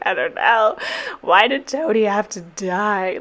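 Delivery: drawn-out mock wail; imitating crying. Vlogger replaying her answer to boyfriend, mock tearful. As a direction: whine it slowly as if sobbing over a film. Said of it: "while I was crying".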